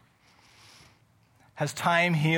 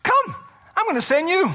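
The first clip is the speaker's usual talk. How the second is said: booming God voice, higher and louder; voicing God; 11 semitones higher, 4 dB louder than usual. Preacher voicing God calling Moses, big and high. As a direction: call out like God summoning. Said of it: "He's like".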